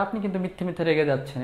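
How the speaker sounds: quick, mildly irritated complaint; annoyed. Shown as a demonstration. Teacher showing how to scold someone angry for nothing. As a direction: rattle it off a bit fed up. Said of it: "বিরক্ত হয়ে যদি বলতে চাই".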